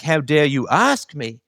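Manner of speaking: a hammed-up how-dare-you; mock angry retort. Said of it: "when people just get angry".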